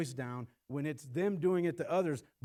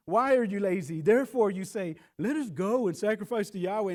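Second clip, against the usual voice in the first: sarcastic taunt; 3 semitones higher, 5 dB louder than usual. Retold or imitated. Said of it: "he's doing this sarcasm".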